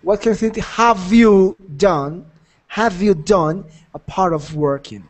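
slow teacher repeat. Shown as a demonstration. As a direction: repeat it slowly so the student understands. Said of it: "Tell me, you got it".

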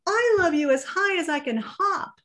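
high and bouncy, mild laugh in it; little hare hopping, high giggly voice. Acted. Little hare bouncing for his father, high mild laughing voice. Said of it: "laughed Little Nut Brown Hare".

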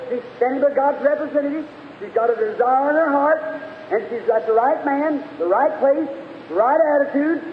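preaching. Acted. Preacher telling of the woman confessing to Jesus, preaching. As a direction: build the retold confession for the congregation.

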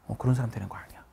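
whispered admonition; teacher whispering advice. Real, not acted. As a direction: hush the warning.

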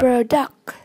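"Product" stressed on PRO; stress on first syllable. Shown as a demonstration. Teacher modelling vocabulary for learners, "Product" stressed on PRO. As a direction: put the weight on PRO in "Product". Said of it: "nhấn âm một".

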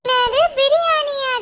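loud, slow delighted gasp; thrilled. Acted. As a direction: savour the word biryani. Kid hears biryani is coming.

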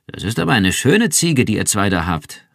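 laut und hoch über das Dach gerufen; rufen. Acted. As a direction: dem Nachbarn freundlich zurufen. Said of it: "rief er". (Nachbar ruft dem Paar über das Dach zu)

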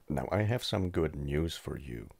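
speaking with a swollen jaw; talking stiffly after jaw surgery; with a sore jaw. Real, not acted. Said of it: "if I sound a little weird".

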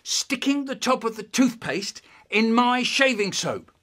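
high, emphatic interrogation; accusing dad. Acted. Dad questioning son about the shaving soap, accusing. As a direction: question him pointedly, phrase by phrase. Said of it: "He said".

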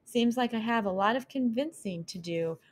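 high, lively little mouse voice; a curious young mouse asking; curious mouse girl. Acted. Mouse thinks anxiously.

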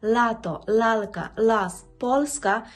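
лато, лалка, лас, польська with tongue-tip L; soft Polish L. Shown as a demonstration. Teacher offers four words to practise, soft Polish L. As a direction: practice words said distinctly, Л clear. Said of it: "пропоную ось цих чотири слова".

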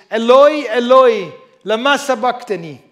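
cried out loud and high; loud cry. A narrator's reading. Jesus crying out to God from the cross, loud. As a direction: call out in anguish from the cross. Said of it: "called out with a loud voice".

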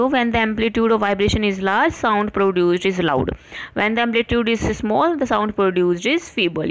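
slow, deliberate textbook dictation; careful slow dictation to students; dictation reading. Acted. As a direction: read it out slowly for notes. Reads textbook lines slowly.

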